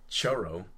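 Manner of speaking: CHURRO with first vowel drifting to "oh/ah", English R; mispronounced churro. Shown as a demonstration. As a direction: say churro loosely, like CHO-ro. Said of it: "if you say".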